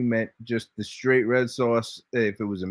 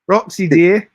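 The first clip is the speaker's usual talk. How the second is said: calling out; 8 semitones higher, 6 dB louder than usual. Real, not acted. Calling out to absent Roxy.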